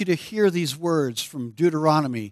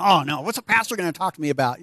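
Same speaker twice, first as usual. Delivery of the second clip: mock nervous; much faster than usual. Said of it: "she gets all nervous".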